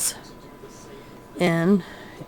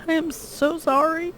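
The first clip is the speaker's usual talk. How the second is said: laughing, a little higher and slower; laughing apology; 10 semitones higher than usual. Real, not acted.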